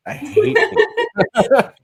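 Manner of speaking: high, slow, laughing through the words. Real, not acted. Laughing about being political.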